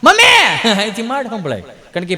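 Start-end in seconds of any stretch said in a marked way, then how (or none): 0.0-0.7 high call of mummy. Retold or imitated. A modern child calling mummy in a high voice. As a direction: call out for mum, much higher. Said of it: "અત્યારે એવું mummy".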